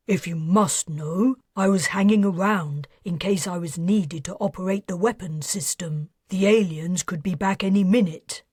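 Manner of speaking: a hint of a nervous ex-financier; defensive man voice. Aubreo voiced in dialogue.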